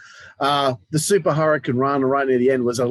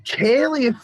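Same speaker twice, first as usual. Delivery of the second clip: high screeched Scottish wrestler, voice near breaking; Kaylee Ray impression; 11 semitones higher, much slower than usual. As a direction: drag out the words in a high, cracking Scottish screech. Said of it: "Trying to make my voice like break".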